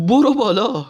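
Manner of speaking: the king orders the driver on, loud mock swagger; Reza Shah's bully voice. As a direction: bark it like a swaggering strongman. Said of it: "با همون حالت توناژ صدای رضاخانی".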